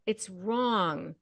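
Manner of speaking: normal talking voice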